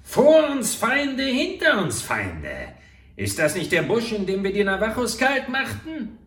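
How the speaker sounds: cornered murderer shrieking in dread; panicked outcry. A narrator's reading. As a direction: cry out, trapped on both sides. Trapped between enemies, panicking.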